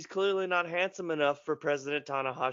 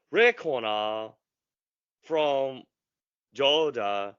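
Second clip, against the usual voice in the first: Japanese ring announcer; much slower than usual. Pretend. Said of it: "Japanese ring announcer intro".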